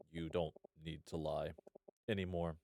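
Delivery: low, soft and seductive; sultry voice. Acted. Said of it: "Should I give him a sultry voice".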